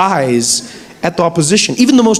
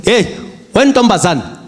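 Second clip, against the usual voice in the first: stern father; slower than usual. Retold or imitated. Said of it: "father scolding daughter".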